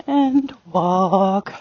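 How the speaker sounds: WALK very long and low; downward transition command. Shown as a demonstration. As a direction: drop the voice and stretch "walk". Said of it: "my voice goes down".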